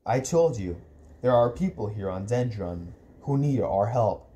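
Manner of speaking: low, patient explanation; slow, patronizing. Acted. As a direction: explain it as if to a little kid. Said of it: "he said slowly, as if to a little kid".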